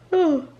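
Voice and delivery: a real yawn breaking into the words; sleepy yawning oh. Real, not acted. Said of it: "so I apologize for the yawning".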